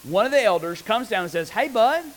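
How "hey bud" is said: comforting elder. Retold or imitated. Elder comforting weeping John.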